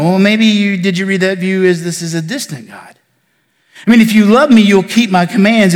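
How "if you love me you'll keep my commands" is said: cold, disinterested. Retold or imitated. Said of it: "this cold, disinterested version".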